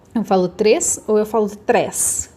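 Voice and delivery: first três closed e, second três open ɛ; closed versus open três. Shown as a demonstration. Teacher asking which vowel, closed or open três. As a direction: contrast three closed then open. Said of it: "eu falo mais pra dentro".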